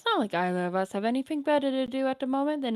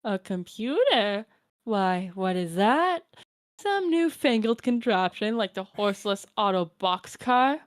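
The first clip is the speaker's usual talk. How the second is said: lightly voiced doting grandmother; a hint of a kindly old granny; old grandma voice; 3 semitones lower than usual. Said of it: "my Nana voice".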